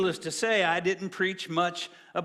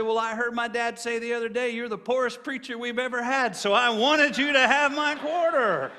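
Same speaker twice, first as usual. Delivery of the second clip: put-on raised-pitch earnest child voice, rising higher and louder at the end; little boy; 5 semitones higher, 4 dB louder than usual. Preacher voicing the boy who gives him a quarter, innocent child voice. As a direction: play the small boy innocently explaining his quarter.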